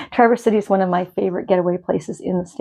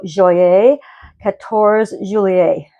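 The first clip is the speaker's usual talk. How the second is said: clumsy American French accent, slowing on the second part; greeting France in a self-admittedly bad French accent; much slower than usual. Shown as a demonstration. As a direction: attempt French and land it badly. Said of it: "I just pronounced that with the worst accent ever".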